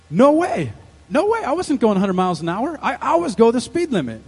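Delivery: emphatic mock-innocent protest; indignant denial. Husband denying to the cop that he sped, indignant. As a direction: protest like a wrongly accused driver.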